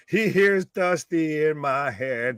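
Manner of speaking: slow wrestler impression; drawn-out mock wrestling promo voice; Dusty Rhodes impression. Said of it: "He sounds like Ric Flair".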